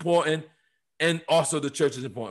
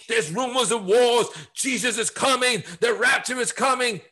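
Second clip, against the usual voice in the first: raised pitch, mock end-times preaching; lightly voiced preacher proclaiming doom; imitating fearmongering preachers; 5 semitones higher than usual. Somebody preaching rumors of wars, higher-pitched mock preacher. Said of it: "if somebody's preaching".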